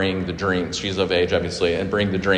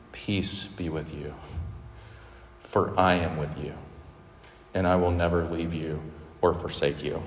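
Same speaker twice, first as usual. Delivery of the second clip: gentle comfort; 3 semitones lower, 6 dB quieter than usual. Retold or imitated. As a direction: speak peace over frightened friends. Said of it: "coming to his anxious disciples and saying".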